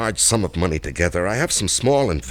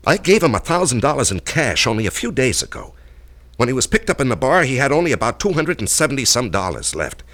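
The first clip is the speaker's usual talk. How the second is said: louder, higher, rushing with agitation; agitated; 5 semitones higher, 4 dB louder than usual. Acted. Man tells Allison the blackmailer squandered his cash, agitated. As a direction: build his outrage about the money.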